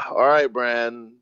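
slow, drawn-out resignation after a sigh; weary reaction. Retold or imitated. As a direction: give up on him, dragging the words. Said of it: "I was just like".

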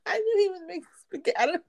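whispered through giggles, quick; giggling it out under her breath; laughing whisper. Real, not acted. Laughing at husband cooking spaghetti.

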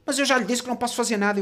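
high, quick mock complaint; exasperated clerk. Clerk insisting she can't help, exasperated. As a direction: imitate a fed-up clerk, fast and high. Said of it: "ela começou".

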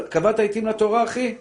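a heavenly judge pressing you, loud; demanding judge in the world to come, loud and high; heavenly interrogation. Acted. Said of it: "שאלו אותך".

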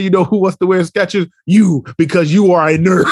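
sassy fifth grader. Retold or imitated. Teacher retells a fifth grader's comeback, imitated sass. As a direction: throw the comeback like a sassy child. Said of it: "she got mad attitude".

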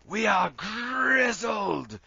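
hammed-up British wrestler accent, high and very drawn-out; over-the-top imitation British accent, stretching each key word; Zach Gibson's rich accent. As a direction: shout it slowly in a rich British promo accent. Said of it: "that, that rich, rich accent".

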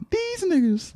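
high, exaggerated delivery; very emphatic. Shown as a demonstration. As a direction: overdo it up high. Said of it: "say it with, like, very".

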